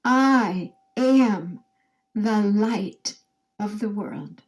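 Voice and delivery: voiced, slowed recital; group recital. Shown as a demonstration. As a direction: speak it with the group slowly. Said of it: "say it with me".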